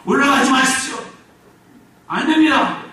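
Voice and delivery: cling and beg him not to go; Mary begging Jesus not to leave; pleading cry. Acted.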